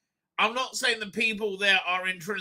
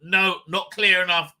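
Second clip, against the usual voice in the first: imagined editor's demand; 7 dB louder than usual. Retold or imitated. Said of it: "a clear, unbiased mind to say".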